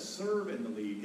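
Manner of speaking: "Serve and lead" said slowly, each word weighted; slow emphasis. Shown as a demonstration. Pastor stressing the verse's words to couples, slowly. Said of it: "But notice it says".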